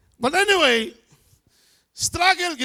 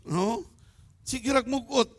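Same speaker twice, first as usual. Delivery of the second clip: usual speaking voice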